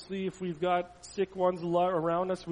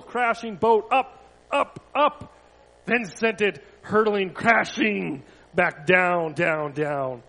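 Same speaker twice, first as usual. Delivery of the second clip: rising, then falling; 8 dB louder, slower than usual. A narrator's reading. Boat hurled on the waves, voice climbing then falling. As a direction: pitch climbs with each up, drops with each down.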